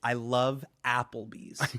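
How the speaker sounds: American accent. Shown as a demonstration. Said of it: "really emphasize the A".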